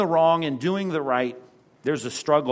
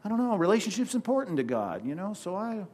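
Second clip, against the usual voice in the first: higher, soft, hesitant mock whine; mock waffling; 4 semitones higher, 4 dB quieter than usual. Timid believer backing down from faith, high soft waffle. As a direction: hem and haw like a timid believer. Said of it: "we're saying".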